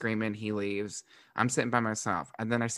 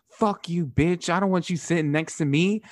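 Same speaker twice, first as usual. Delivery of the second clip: mock angry stranger; 7 semitones higher, 5 dB louder than usual. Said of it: "And he goes".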